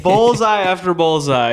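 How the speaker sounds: loud, slow self-congratulating line; smug boast. Pretend. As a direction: gloat over your own joke. Repeats own joke boastfully.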